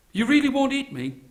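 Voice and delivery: high-pitched anxious question; nervous Brahmin. Acted. Brahmin checking with the caged tiger, nervous. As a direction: ask it high and worried.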